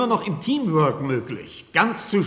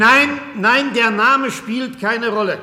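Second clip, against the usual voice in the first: higher and louder, cutting the question off; sharp refusal; 4 semitones higher, 5 dB louder, slower than usual. Acted. Doctor refuses to name his colleague, loud and higher. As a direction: shut the reporter down fast.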